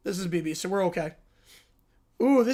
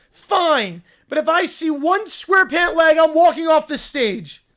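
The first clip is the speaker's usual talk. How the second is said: sulky ultimatum; 3 semitones higher, 4 dB louder than usual. Acted. Ron Bear's ultimatum.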